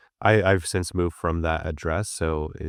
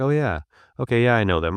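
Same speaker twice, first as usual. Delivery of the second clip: higher-pitched, lively dawning recognition; mock recognition; 5 semitones higher, 4 dB louder, faster than usual. Local customer spotting the ads, imitated pleased recognition. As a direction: imitate a customer suddenly remembering, voice lifted.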